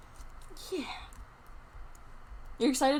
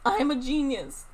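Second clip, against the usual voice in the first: mock boast with a laugh, a bit louder; laughing brag; 4 semitones higher, 5 dB louder than usual. Streamer repeats her brag to viewers, laughing. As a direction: laugh through the brag at yourself.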